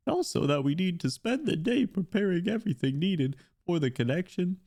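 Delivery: lightly voiced game dialogue, read aloud; reading a character's lines to chat; voicing story characters. Streamer reading the event story aloud, lightly acted.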